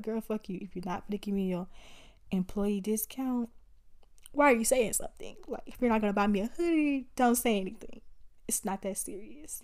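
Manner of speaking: retold sassy attitude, rattled off; dismissive attitude. Shopper imagining answering back to the clerk, indignant attitude. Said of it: "that was my attitude".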